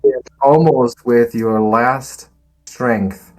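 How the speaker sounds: dramatic combat storytelling, building in intensity; suspenseful tabletop scene-setting; game master narration. Acted. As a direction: narrate a last-ditch strike with punched key words.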